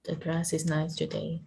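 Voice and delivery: soft, even repeat with no rise on TODAY; flat statement tone. Shown as a demonstration. Learner repeating the teacher's example statement, softly in a flat tone. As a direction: echo it softly, keeping "today" level. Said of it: "Voice flat".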